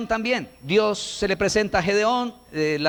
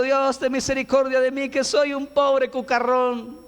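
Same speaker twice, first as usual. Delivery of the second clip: mock pitiful prayer; 5 semitones higher than usual. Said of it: "terminó diciendo".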